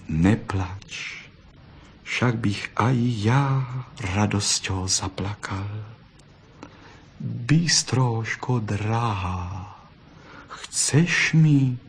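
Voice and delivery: soft, slow, tender fox voice. Acted. Fox softly comforts the weeping vixen, tender and slow. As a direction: comfort her gently and lovingly.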